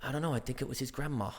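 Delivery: put-on American accent slipping into posh British; posh halfway through. Spider-Man actor loses his accent mid-line, going posh. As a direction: start American, quietly turn posh British. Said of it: "I went posh halfway through".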